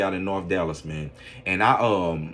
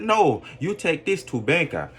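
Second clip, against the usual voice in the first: higher-pitched imitated Asian accent; imitated foreign accent; 6 semitones higher than usual. Shopkeeper turning the customer away, imitated Asian accent. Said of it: "in her accent".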